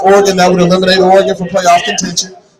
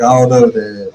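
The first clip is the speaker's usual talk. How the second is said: imitating his son, much lower and mumbled; extra deep voice; 8 semitones lower than usual. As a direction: drop the voice low like a teenage son shrugging it off. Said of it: "it's an extra deep voice".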